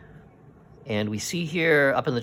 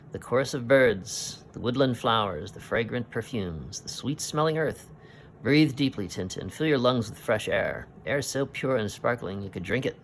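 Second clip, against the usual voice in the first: lightly voiced jolly sea captain, a bit raised; hearty Captain Haddock; 3 semitones higher than usual. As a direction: boom out the joy of spring like an old sailor. Reads Haddock's lines in comic book.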